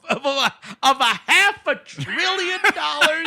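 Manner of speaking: high, drawn-out mock squeal; mock amazement. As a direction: stretch it out high and loud, hamming it up. Mocking the huge prize in a retelling.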